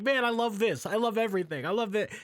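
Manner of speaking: high, loud mock gushing; hammed-up delight; gushing fan imitation. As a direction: imitate everyone loving everything. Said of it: "everybody else is like".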